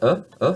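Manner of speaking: uh as a loose relaxed neutral vowel; French schwa. Shown as a demonstration. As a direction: let the jaw hang and say uh. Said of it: "you can pronounce that".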